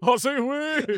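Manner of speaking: slow, lightly voiced Forrest Gump impression. Cohost echoes the bit in a slow Forrest Gump voice. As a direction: echo the line slowly as Forrest Gump. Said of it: "our Forrest Gump impressions".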